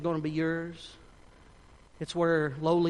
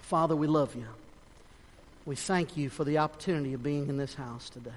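hushed, lowered opening of a prayer; spoken prayer; 2 semitones lower than usual. Real, not acted. Leads a closing prayer.

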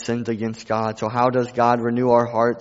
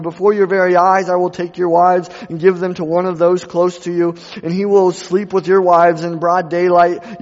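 Nathan rising, louder in stern rebuke; prophet's rebuke; 5 semitones higher, 6 dB louder than usual. Acted. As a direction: thunder the prophet's accusation at the king.

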